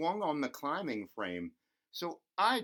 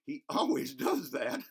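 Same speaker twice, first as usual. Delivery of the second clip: laughing while reading; 4 semitones higher, 3 dB louder than usual. Real, not acted. Laughing at dog sniffing.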